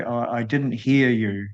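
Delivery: "hear" given the emphasis; "hear" as the most prominent word; stress on HEAR. Shown as a demonstration. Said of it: "you emphasize the word "hear".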